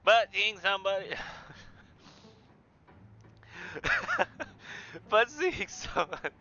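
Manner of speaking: bubbly, rambling Southern lady; Southern woman. Acted. Janie finally meeting Henry properly, flustered Southern accent. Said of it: "Southern woman".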